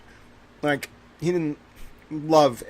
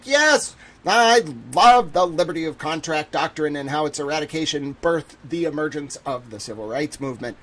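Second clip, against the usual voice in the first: mock excited yes. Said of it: "And I'd be like".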